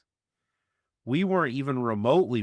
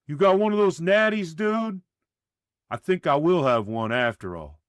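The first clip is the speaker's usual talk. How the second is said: victorious; 8 semitones higher, 5 dB louder than usual. A narrator's reading. Reedy, victorious, asks for beer.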